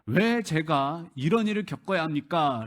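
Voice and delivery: mild protest, voicing Job's complaint; challenging God. Job arguing with God over his suffering, mildly challenging. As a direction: question God with a stressed "why". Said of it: "하나님께 따지는 겁니다".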